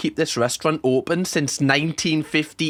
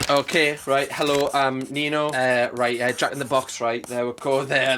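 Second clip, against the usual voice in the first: mock fumbling note-reader; 4 semitones lower, 3 dB quieter than usual. Mocks Nino reading his notes.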